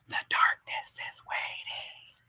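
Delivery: put-on very hushed, drawn-out, creepy child whisper. Describing a disruptor that drops off into a kid's line: creepy kid voice. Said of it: "creepy ass kid that does one of these things".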